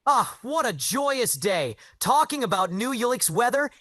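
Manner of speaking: happy. Pretend. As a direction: sound like you just won the lottery. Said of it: "be happy and have a very pleasant".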